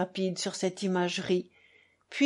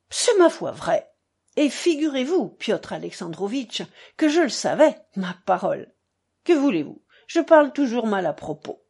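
a hint of an effusive father; lightly voiced buffoon father; 4 dB louder than usual. Narrator plays the buffoon father.

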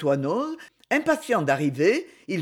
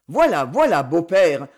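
louder, mocking snigger; son-in-law sniggering while dawdling; 6 dB louder than usual. A narrator's reading. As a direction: tease the father-in-law with a smirk. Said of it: "ricanait-il".

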